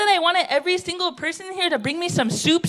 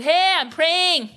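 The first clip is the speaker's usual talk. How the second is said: laughing mock protest; 3 semitones higher, much slower than usual. Caught smoking, protests laughing.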